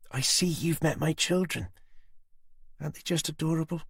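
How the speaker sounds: high, cold threat; Susan's menacing voice. A narrator's reading. Susan threatening Tanner with the knife at Jenny's throat. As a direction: savour the threat.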